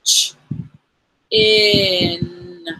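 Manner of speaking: "Ch-" then a high "in", split apart; sound by sound. Shown as a demonstration. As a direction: segment "Ch-" and "in" for the child. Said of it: "Let's push it with our finger first".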